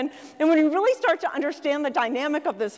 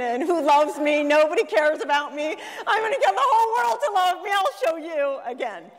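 mock self-pity; 4 semitones higher than usual. Mocking her younger damaged self.

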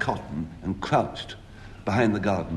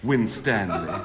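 a raised hail, pitched up high; shouted; 6 semitones higher, 3 dB louder than usual. Retold or imitated. Narrator catching the tea thief, a mock-heroic shout. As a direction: call out to catch the culprit red-handed. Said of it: "I shouted".

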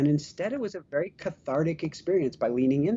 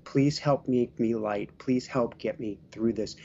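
prayer invocation. Acted. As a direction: call in the angels gently and deliberately. Leads an angel prayer invocation.

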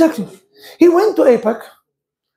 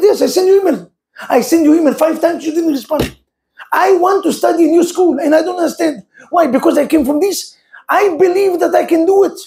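insistent student; 5 semitones higher than usual. Retold or imitated. Student insisting to Harvard president.

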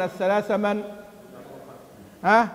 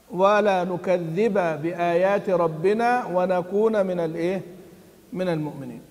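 Quran recitation. Shown as a demonstration. Reciting the verse for Ya'qub. (تلاوة متأنية مرتلة)

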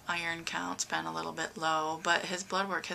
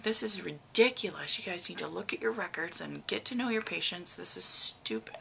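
retold rant; 3 dB louder than usual. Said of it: "he's like".

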